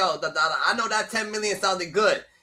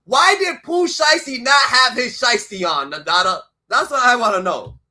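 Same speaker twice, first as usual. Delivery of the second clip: incredulous loud rant; 3 semitones higher, 7 dB louder than usual. Real, not acted. Ranting incredulous about the mask.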